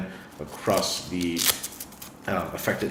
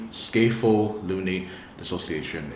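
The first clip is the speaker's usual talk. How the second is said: Scapholunate dissociation spoken slightly slower, word by word; a bit more slowly. Shown as a demonstration. Vlogger saying the medical term for viewers, a bit slowly. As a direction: space out Scapholunate dissociation for clarity. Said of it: "Let me say that a bit more slowly".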